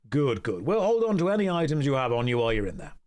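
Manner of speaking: stern low-voiced head butler; low butler host voice. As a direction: lay down the party rules, low and formal. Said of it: "I'm gonna do the voices for every character".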